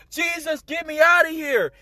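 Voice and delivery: high-pitched imitated cry for rescue; desperate plea. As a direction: plead like a trapped soul. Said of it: "I was hearing sounds like".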